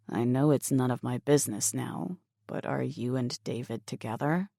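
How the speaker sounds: a hint of a guarded young man. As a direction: ask it low and hesitant. Mason speaks to Emily.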